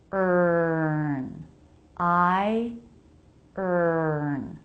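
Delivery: "Er" held as one sound; "Er" with the R absorbing the vowel; R-coloured schwa. Shown as a demonstration. Teacher isolating the sound in "Er". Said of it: "When R comes after schwa".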